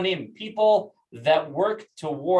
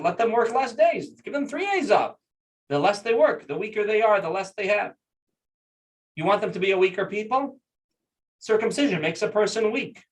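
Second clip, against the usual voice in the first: higher-pitched pleading argument, retold; persuading the emperor; 4 semitones higher than usual. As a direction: reason with him, pitching each point higher. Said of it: "he said like this".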